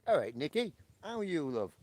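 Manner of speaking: lightly put-on English accent greeting; a weak stab at an English accent; bad English accent. Greeting Nikki in a lightly put-on English accent. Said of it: "I'm doing an English accent. That's terrible".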